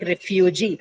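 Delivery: "refugee" stressed on the final "gee"; stress on last syllable. Shown as a demonstration. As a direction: put the weight on "gee" in "refugee". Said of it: "we mark it on the last one".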